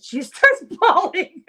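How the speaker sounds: laughing through the words, high and loud; real burst of laughter mid-sentence. Real, not acted. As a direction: crack up while telling it. Laughing about patient crying.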